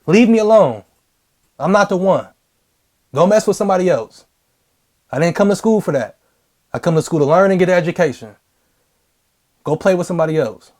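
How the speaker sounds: firm, serious warning to a bully; intense and firm. Shown as a demonstration. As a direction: say it like you mean it. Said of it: "you gotta say it like you mean it".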